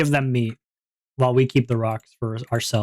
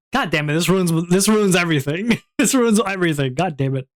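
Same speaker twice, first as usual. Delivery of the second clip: higher, laughing mock frustration; mock exasperation; 4 semitones higher than usual. Game master reliving his ruined plan, mock exasperation. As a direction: complain in comic despair, a laugh breaking in.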